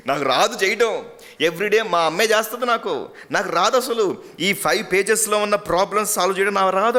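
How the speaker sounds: a first-grader insisting he can't do it; whiny little boy. Acted. Little boy refusing homework on the bus, whiny.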